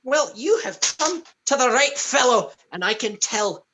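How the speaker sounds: high, hearty Santa-style proclamation; jolly gift-giver. Acted. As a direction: announce help with a big flourish.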